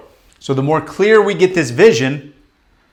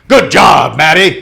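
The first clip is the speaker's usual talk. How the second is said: louder, cheery pat-on-the-back praise; mock encouraging voice; 6 dB louder than usual. Coach mocking the praise the inner voice never gives, cheery. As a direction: say it like a cheerleader you'll never hear. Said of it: "That voice isn't one that's like".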